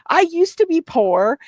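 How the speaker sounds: imitating a drunk streamer, high and yelling; mock the drunk rant in a high yell; drunk high-pitched yelling. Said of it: "that high-pitched yelling".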